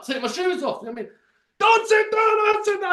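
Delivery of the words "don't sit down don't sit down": high, loud repeated order; mock shouting guard. Guard forbidding him to sit, high loud mock shout. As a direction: yell the order over and over. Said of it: "he goes".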